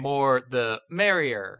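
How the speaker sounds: very slow, piecemeal fake quote; spliced-together voice words. Cohost faking a podcast from old clips, slow spliced words. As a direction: pretend each word was cut from another recording. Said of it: "take all of your voice words".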